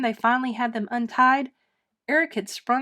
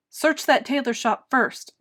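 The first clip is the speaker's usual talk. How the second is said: commanding; 3 semitones higher, 4 dB louder than usual. Acted. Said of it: "commanded Lord Droon".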